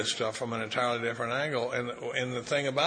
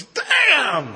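high, very loud drawn-out exclamation; amazed outburst; 12 dB louder than usual. Retold or imitated. Sponsee in the car after lunch, retold amazed yell. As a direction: imitate someone bursting out in amazement.

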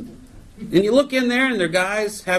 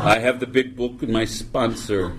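mock serene; 9 semitones lower than usual. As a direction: gently let the butterfly go. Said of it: "and I go".

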